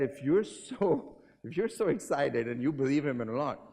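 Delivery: mock sarcastic bystander; crowd retort. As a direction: throw the dare back at him. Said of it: "They said".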